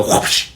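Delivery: whoosh sound effect. Shown as a demonstration. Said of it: "that's the sound effect".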